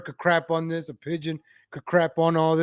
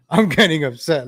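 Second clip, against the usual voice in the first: louder, worked-up announcement; worked up, voice raised; getting upset; 6 dB louder than usual. Real, not acted. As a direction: push it out loudly as irritation builds.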